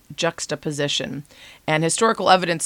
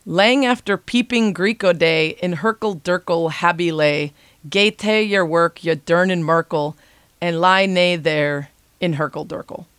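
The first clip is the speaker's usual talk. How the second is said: put-on amateur Scottish accent, reading old verse; terrible Scottish accent. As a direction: read it out in a badly faked Scottish accent. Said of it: "here comes my terrible Scottish accent".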